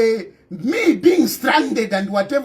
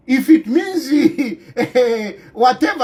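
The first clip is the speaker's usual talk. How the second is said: words broken by real laughter; laughing. Real, not acted. Politician laughing at his own apology in a rant, laughing.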